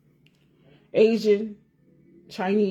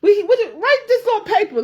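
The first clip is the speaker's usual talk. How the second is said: laughing; 11 semitones higher, 5 dB louder than usual. Retold or imitated. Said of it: "I used to be mad as hell".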